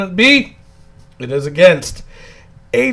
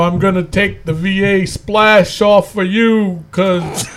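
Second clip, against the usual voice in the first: a weak, hammy imitation of a big wrestler; bad Big Cass impression. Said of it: "That's a very bad impression".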